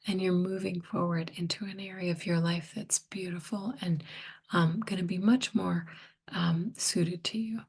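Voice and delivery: hoarse, fading voice; losing voice. Real, not acted. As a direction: talk through a voice that is giving out. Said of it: "sorry, I'm losing my voice".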